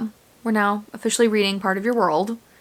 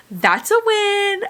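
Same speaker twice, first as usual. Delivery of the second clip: drawn-out smug cheer; 11 semitones higher, much slower than usual. Real, not acted. Pleased aside.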